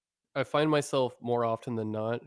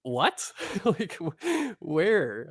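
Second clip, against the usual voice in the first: put-on valley girl accent; 8 semitones higher, 5 dB louder, much slower than usual. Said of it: "I was like".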